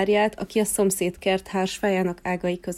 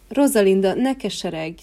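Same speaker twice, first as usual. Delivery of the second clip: comforting gladiolus; 4 dB louder than usual. Acted. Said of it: "szólalt meg a kardvirág".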